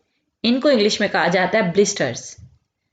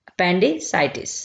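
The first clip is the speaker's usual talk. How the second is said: appendicitis said very slowly, syllable by syllable; teacher drawing out appendicitis slowly; slow clear repeat; much slower than usual. Shown as a demonstration. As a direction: spell it out slowly for the class. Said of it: "इसे English में कहा जाता है appendicitis".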